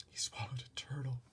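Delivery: soft unvoiced whisper. A narrator's reading. Mother whispering to the ambulance attendant. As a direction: whisper it in embarrassment. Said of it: "my mother whispered".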